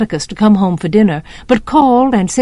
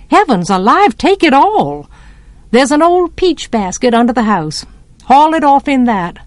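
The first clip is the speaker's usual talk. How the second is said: lightly acted emphatic neighbour; Miss Maudie, exclaiming; 3 semitones higher than usual. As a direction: hand it over with a lively exclamation. Voices Miss Maudie's brisk consent.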